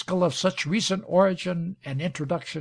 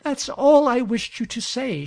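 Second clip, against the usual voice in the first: lightly voiced delighted woman, much higher pitch; radiant, pleased; 9 semitones higher, 5 dB louder than usual. A narrator's reading. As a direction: lift it high with happy relief. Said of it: "looking him radiantly in the face".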